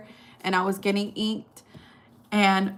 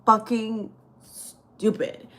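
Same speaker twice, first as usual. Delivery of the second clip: exasperated disbelief; 2 semitones higher, 3 dB louder, much slower than usual. Retold or imitated. Retelling what she told her friend, slow exasperated disbelief. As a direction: stretch every word out in disbelief. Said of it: "And I'm like".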